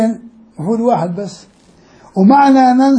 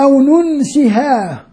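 slow demo; 2 semitones higher, slower than usual. Shown as a demonstration. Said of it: "الكلمة الثانية فيها قراءتين".

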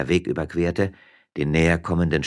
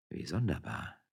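hushed, much softer; muted voice; 10 dB quieter than usual. Acted. Miller reacts without moving, muted. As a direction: keep the voice right down. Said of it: "mit gedämpfter Stimme".

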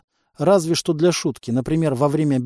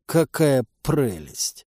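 ехидно; much slower than usual. Acted. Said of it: "осклабился Бурборыч".

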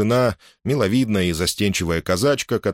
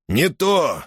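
short, sharp and higher, an angry interruption; 7 semitones higher than usual. A narrator's reading. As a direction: cut him off with a gruff retort. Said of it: "сердито сказал".

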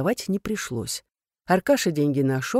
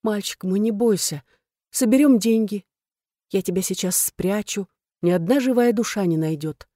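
tender reassurance; 4 semitones higher than usual. Acted. Woman comforts her frightened lover.

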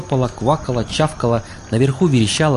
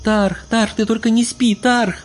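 very high begging cry; pleading wail; 11 semitones higher, slower than usual. A narrator's reading. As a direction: beg him not to sleep, wailing. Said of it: "Сверху нёсся умоляющий вопль".

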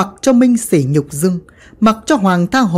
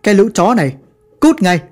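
cursing mob; faster than usual. Acted. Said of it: "tiếng chửi vang lên".

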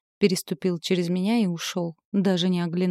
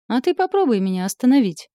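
higher, louder bared-teeth snarl; challenging snarl, higher and louder; snarling defiance; 6 semitones higher, 6 dB louder than usual. A narrator's reading. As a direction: snap back with a snarl. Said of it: "оскалилась я и зарычала".

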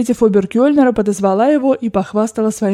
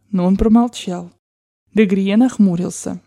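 usual speaking voice

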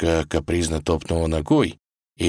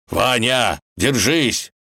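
raised, urgent call; shouting; 6 semitones higher, 3 dB louder, much slower than usual. Acted. Wolf calls to Ivan hanging over the abyss, shouting. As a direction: call out to him across a gap. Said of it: "закричал он".

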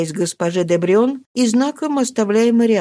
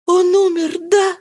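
calm question; 12 semitones higher, 3 dB louder than usual. A narrator's reading. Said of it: "но спокойным голосом".

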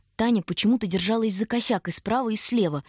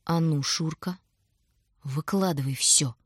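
clipped command; slower than usual. A narrator's reading. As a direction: rap each word out coldly, slowly. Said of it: "отчеканила она".

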